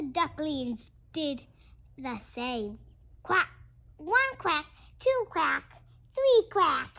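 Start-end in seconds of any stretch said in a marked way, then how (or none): 3.2-6.9 high, loud duckling counting; playful quacking count. Acted.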